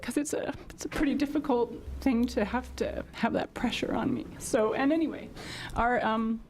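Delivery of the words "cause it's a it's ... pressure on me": fighting back tears as she says it; real emotion breaking through; choked up. Real, not acted. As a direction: voice thinning to a tearful near-whisper. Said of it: "I'm sorry if I get emotional over it".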